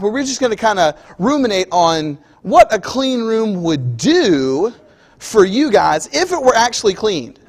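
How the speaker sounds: a hint of a kid talking his way out; stalling kid. Kid excuses to Dad.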